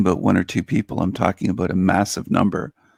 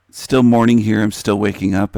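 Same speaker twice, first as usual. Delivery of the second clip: losing voice; 3 dB louder than usual. Real, not acted. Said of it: "I'm kinda losing my voice a little bit".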